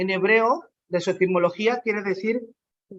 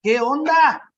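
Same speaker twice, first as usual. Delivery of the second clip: casual inner voice. Retold or imitated. Jesús ha de haber estado pensando.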